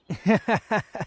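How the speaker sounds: high breathy villain chuckle; a little pleased chuckle after the threat; short smug laugh. Acted. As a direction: laugh at your own menace. Villain amused at own threat.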